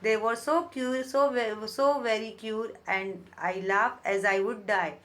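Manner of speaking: very slow, deliberate reading of verse; teacher reading poetry aloud; poem recitation. Shown as a demonstration. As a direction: savour each word of the poem line.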